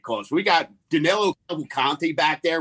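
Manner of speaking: Danilo Cavalcante in a Philly accent; Philly accent with a flat short a and dropped r. Shown as a demonstration. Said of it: "in a Philly accent".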